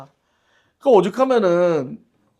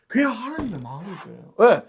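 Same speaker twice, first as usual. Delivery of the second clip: ordinary talk, nothing marked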